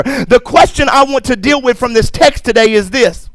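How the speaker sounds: full-voiced preacher declaring over the crowd; preaching. Pastor exhorting the congregation, preaching. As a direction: preach it with rising conviction.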